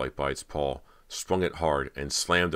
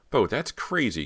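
incredulous; 8 semitones higher, 4 dB louder than usual. A narrator's reading. Cody protests.

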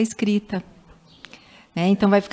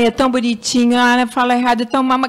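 put-on cooing baby talk; 4 semitones higher, 4 dB louder than usual. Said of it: "Fala assim".

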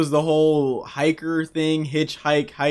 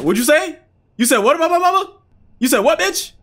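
high, loud mock outrage; 13 semitones higher, 5 dB louder, faster than usual. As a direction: act offended about mama. Mock offended at NPC joke.

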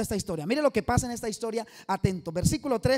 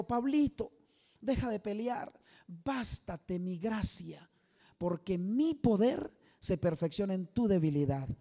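low, slow, hushed voice of the Lord; voice of God; 4 semitones lower, 5 dB quieter, slower than usual. Acted. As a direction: speak as God, gently correcting Paul. God speaks to Paul. (voz de Dios, grave, lenta y suave)

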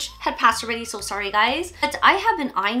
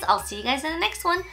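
fast, higher and bubbly; bright cheery sign-off; 5 semitones higher, faster than usual. Real, not acted. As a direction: chirp the goodbye quickly. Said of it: "outro said twice".

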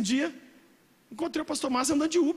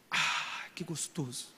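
much softer, lower, sighing delight; breathy sigh of pleasure; 9 semitones lower, 8 dB quieter, much slower than usual. Shown as a demonstration. Preacher demonstrating the pleasure of giving, soft and sighing. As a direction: savour it with a sigh. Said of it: "quando você faz assim com a boca".

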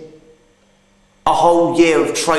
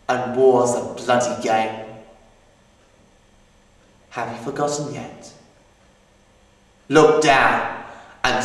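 poem recital. Acted. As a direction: read it like a memorial poem, measured. Recites war poem, then monologue.

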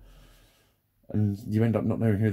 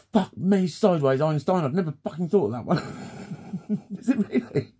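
sarcastic; 4 semitones higher than usual. Real, not acted. Sarcastic reply to obvious remark.

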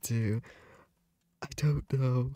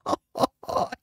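breathless laugh; 4 dB louder than usual. Real, not acted. Reacts to winning the vote.

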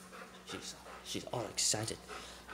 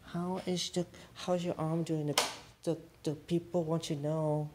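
higher teasing interviewer voice; 7 semitones higher than usual. Pretend.

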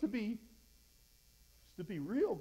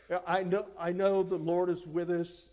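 voicing Gideon; 7 dB louder than usual. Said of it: "is sort of the way it comes across".

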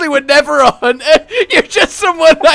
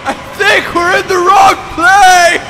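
mock panicked shouting. Panicked shouting while falling.

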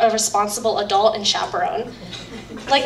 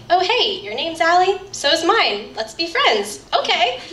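put-on higher, bouncy little-girl voice; childlike chirpy kid voice; 6 semitones higher than usual. Maid of honor imitating her younger self meeting Allie, high and chirpy. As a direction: chirp it like a small child making a friend. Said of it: "it was probably something like".

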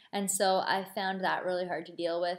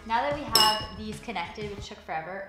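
talking around a spoonful; eating while talking. Real, not acted. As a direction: mouth full of soup. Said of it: "sorry, I'm also eating soup".

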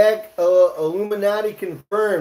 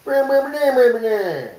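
mumbling in-law; 5 semitones higher than usual. Retold or imitated. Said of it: "talks like that".

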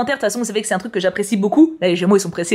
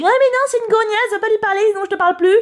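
put-on much higher, fast catty girl's voice; jealous best friend; 11 semitones higher, faster than usual. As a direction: rattle it off like a bitchy teen friend.

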